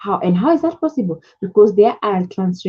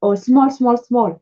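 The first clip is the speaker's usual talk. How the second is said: higher, insistent "Big, big, big"; imitating broken English; 4 semitones higher, slower than usual. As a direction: copy the supplier's simple repeated words. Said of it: "you hear them saying".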